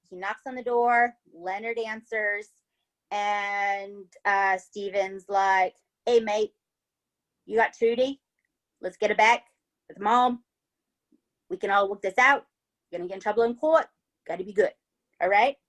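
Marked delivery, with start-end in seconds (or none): 6.1-15.6 put-on casual Aussie bloke accent; chilled-out attempt at Australian. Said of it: "That's my Australian accent".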